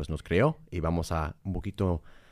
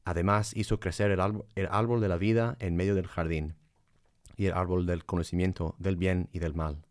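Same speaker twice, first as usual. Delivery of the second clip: scripture reading. Acted. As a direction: read it like scripture. Reads Genesis aloud.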